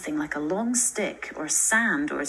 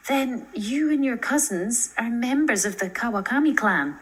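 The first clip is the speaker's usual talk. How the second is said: startled; 5 semitones higher, 4 dB louder than usual. Acted. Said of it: "Startled, she asked".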